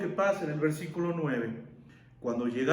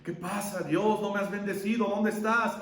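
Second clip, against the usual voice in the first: mock complaint. Mock complaint to God, empty wallet.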